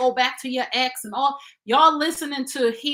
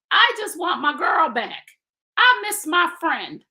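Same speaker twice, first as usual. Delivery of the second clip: wistful quoted man; 5 semitones higher, 4 dB louder than usual. Retold or imitated. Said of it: "That's what one man texted me".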